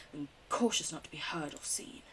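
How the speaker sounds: whispered narration; sneaky whisper. A narrator's reading. Narrating sneaking through the dark, whispered. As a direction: breathe it out as you sneak.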